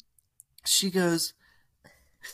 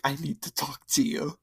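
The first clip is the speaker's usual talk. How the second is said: urgent hushed whisper to a friend. Retold or imitated. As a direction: whisper it fast, keep it secret. Urgently pulling best friend aside.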